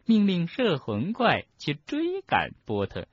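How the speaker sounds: scheming professor. Acted. Umbridge confesses.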